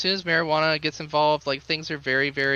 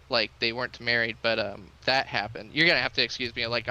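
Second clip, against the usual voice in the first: normal talking voice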